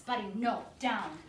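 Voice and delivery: stern loud command; firm "Buddy, no, down"; firm correction. Shown as a demonstration. Trainer stopping the dog jumping up, stern and loud. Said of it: "I would go like this".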